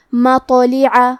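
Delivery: مطلعہ slow with the ط bounced; qalqalah demo. Shown as a demonstration. Teacher showing qalqalah on مطلعہ, slow and clear. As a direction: echo the ط in مطلعہ. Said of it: "طا کو ہلاتے ہوئے یہ کلمہ کو پڑھیں گے".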